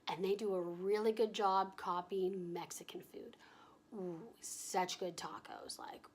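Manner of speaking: soft whispered secret; whispering. Real, not acted. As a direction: whisper it like a confession. Confiding about Mexican food.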